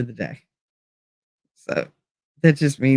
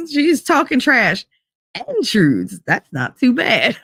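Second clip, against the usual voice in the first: a higher, slowish cutesy read; Monty again; 6 semitones higher, slower than usual. Retold or imitated. Streamer repeats Monty's clip in a lightly higher voice. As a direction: lightly echo the cute clip. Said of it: "I have one of Monty saying".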